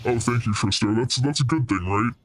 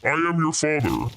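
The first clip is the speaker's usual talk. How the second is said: Darth Vader line; 3 semitones higher than usual. Pretend.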